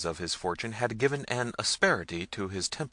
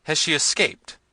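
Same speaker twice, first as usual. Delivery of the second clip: high, loud alarmed question; prince's raised cry; 8 semitones higher, 8 dB louder than usual. A narrator's reading. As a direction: demand the news urgently. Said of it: "cried the prince".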